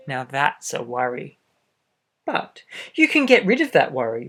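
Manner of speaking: lively storybook read-aloud; reading to children. A narrator's reading. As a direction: read it out to little listeners. Reads picture book aloud.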